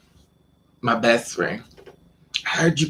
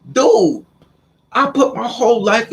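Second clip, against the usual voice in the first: high, loud exasperated outburst; stung and exasperated, pitched high; indignant protest; 9 semitones higher, 5 dB louder than usual. Retold or imitated. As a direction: plead your case, voice pitched right up. Acted quarrel with the guy.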